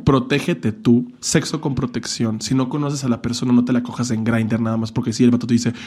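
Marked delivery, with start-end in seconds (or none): 0.1-3.7 slow, caring warning; earnest slow advice. Real, not acted. Advising young gay viewers to protect themselves, slow and caring. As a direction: say it slowly like a big brother. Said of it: "earnest advice".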